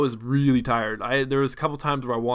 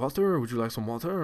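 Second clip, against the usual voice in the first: put-on thick French accent, quieter; 5 dB quieter than usual. Retelling a man who keeps offering the speaker water, thick French accent. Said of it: "he kind of a thick French accent".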